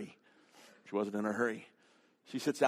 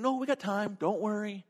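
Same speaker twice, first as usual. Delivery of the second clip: higher, softer soothing voice; reassuring; 7 semitones higher, 3 dB quieter than usual. Retold or imitated. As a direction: imitate a lady calming a panicking man. Unhurried lady reassures frantic man.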